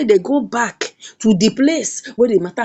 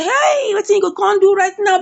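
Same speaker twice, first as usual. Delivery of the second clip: acted panic; 7 semitones higher than usual. Hand on head, at a loss.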